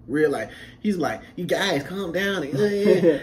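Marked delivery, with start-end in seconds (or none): 1.4-2.4 slow, lightly feminine man's voice. Retold or imitated. White recruit to the others in his usual act, feminine. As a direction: imitate an effeminate recruit, unhurried. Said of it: "he was always acting feminine".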